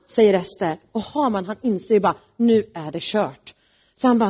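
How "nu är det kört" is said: slow, resigned, sinking; slow dejected sigh of doom; defeated. Acted. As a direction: realize it's all over. Haman realizes doom.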